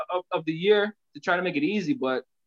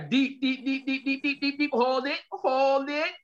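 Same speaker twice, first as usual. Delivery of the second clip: breathing exercise; 3 semitones higher, slower than usual. Shown as a demonstration. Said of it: "do this, do this for me".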